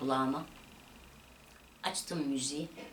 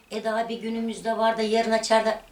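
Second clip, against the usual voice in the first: higher and louder, pleading; imitated pleading mother; 5 semitones higher, 7 dB louder than usual. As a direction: mimic mother begging to stay one more day. (yalvaran anneyi taklit ederek)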